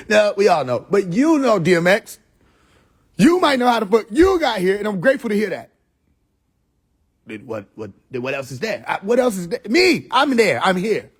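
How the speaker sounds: high, mocking sermon voice climbing to a shouted Me; mock lofty preacher. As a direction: ham up a self-important preacher.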